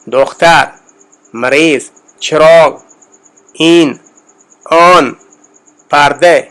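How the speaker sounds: isolated citation words, نان with rounded "aw"; deliberate Persian vowels, پردے ending in a clear e; Persian word list. Shown as a demonstration. Teacher reading vocabulary for learners, Persian word list. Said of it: "وہ میں پڑھتا ہوں".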